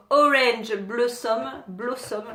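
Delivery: slow attempt at English with a French accent. Real, not acted. Vlogger trying an English doll name, French accent. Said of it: "avec mon super accent".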